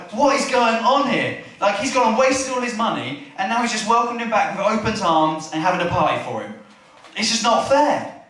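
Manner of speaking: acted strop over unfair treatment, kept mild; mildly angry. Older brother complaining about the welcome home, mildly angry. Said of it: "He gets angry".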